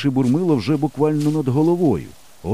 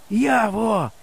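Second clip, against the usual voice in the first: higher, still cautious call; slightly louder call; 9 semitones higher than usual. A narrator's reading. Boy tries his missing friend, slightly louder call. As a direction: call out a little more boldly. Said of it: "кричу я трохи голосніше".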